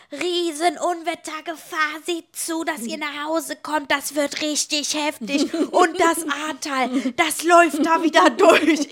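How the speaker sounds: slow, urgent retelling of mom's storm warning; dramatic mom warning. Retold or imitated. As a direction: drag it out like an alarmed mother. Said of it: "Und dann schreibt die Mama mir". (Mutters Unwetterwarnung, langsam und dramatisch)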